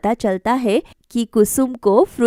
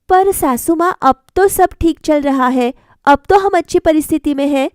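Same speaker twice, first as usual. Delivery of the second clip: put-on higher, earnest young bride's voice; young wife Sangeeta; 4 semitones higher than usual. Bride questions mother-in-law about fruit, higher girlish voice. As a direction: ask your mother-in-law gently, pitched up.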